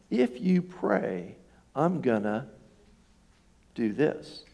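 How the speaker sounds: slow, drawn-out threat, lightly voiced; imitated threat. Something threatens him over praying, slow mock threat. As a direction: spell out a mild threat, word by word. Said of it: "something was saying".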